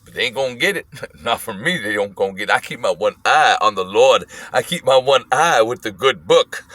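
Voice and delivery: put-on low, grumbled old-man rant; imitated old man going off. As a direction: grumble to yourself like a cranky old passenger. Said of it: "he's just going off".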